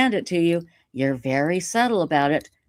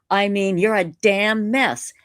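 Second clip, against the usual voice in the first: mock yell; 3 semitones higher than usual. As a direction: bark it out like an angry letter writer. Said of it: "He's yelling".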